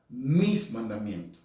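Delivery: "mis" punched out against anyone else's; slow down and lean hard on "mis"; stress on MIS. Shown as a demonstration. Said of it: "No dicen los mandamientos de Moisés". (énfasis marcado en «mis»)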